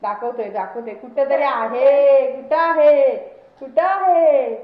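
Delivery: drawn-out, loud searching call; playful searching. Pretend. Owner hunting for the dog's treat, playful drawn-out call. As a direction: stretch each word out as you search.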